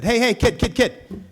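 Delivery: put-on missionary calling after the kid. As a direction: call the kid back urgently.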